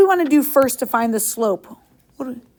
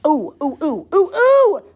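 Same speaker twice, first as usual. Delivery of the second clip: excited oohs; 4 semitones higher, 3 dB louder, slower than usual. Real, not acted. Teacher reacts to a good answer.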